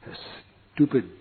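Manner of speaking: soft, slow groan of dismay; mock despair. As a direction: lament missing everything. Despair about missed feast.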